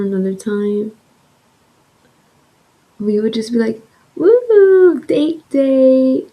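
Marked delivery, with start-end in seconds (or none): 4.1-6.2 high, loud whoop stretched out; excited cheer. Retold or imitated. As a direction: whoop it up about the outing. Acting out the happy mood before switch.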